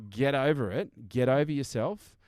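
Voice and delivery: slow, emphatic telling-off; blunt command. Real, not acted. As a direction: tell them bluntly, drawing it out. Blunt retort to the excuse-makers.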